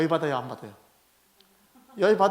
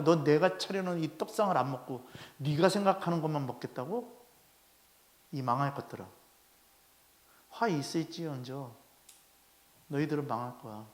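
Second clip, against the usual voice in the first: stern Lord; 6 semitones lower, 8 dB quieter than usual. Retold or imitated. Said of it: "주님 얘기하시는 거예요".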